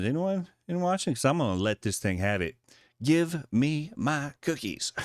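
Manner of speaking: a frustrated commuter losing patience with the machine; frustrated woman. Acted. Frustrated woman voiced at vending machine.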